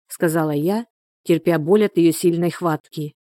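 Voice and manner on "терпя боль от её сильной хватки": ordinary delivery, nothing marked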